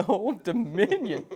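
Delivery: drawn-out, slow mimicking echo; mock echo. Host echoes the guest's home state, slow mocking echo. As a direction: stretch out OLD DOMINION, amused. Echoes the other man's phrase slowly.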